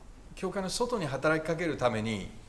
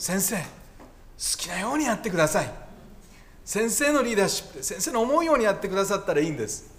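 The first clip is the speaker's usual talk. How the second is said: higher, quicker imitation of an obliging committee; eager church committee; 5 semitones higher, faster than usual. Church committee urging the incoming pastor to do as they like, eager imitation. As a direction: lightly act out a committee's insistent welcome. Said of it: "招聘委員会は、 こんなふうに言います".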